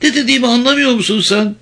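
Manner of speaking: exasperated high-pitched yell, not full force; shouted accusation. A narrator's reading. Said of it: "diye bağırdı Vicky".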